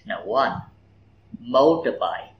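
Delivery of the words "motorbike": MOtorbike with the first syllable stressed; motorbike, stress falling on MO. Shown as a demonstration. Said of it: "phát âm đúng trọng âm từ". (nhấn trọng âm vào MO trong motorbike)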